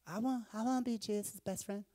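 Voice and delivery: put-on a little boy begging to be picked; eager child. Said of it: "I'm like".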